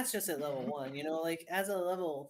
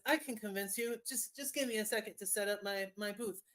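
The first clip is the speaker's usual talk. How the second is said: lightly voiced salesman; 4 semitones higher than usual. Salesman setting up booth.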